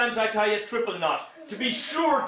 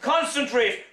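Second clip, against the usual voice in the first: urgent command; 6 semitones higher than usual. Acted. Urging child.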